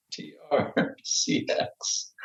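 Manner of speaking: slow, breathless spelling through giggles; real helpless laughter. Real, not acted. Co-host looking up the ticker, can't stop laughing. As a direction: struggle to get the letters out while laughing. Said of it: "I can't stop laughing".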